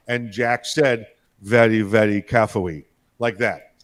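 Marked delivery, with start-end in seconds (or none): 1.4-2.8 lower, r sounds softened in a bad mock Asian accent; retold mock Asian accent, almost Elmer Fudd. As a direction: imitate the announcer's mocking Asian accent. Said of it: "it was a bad Asian accent".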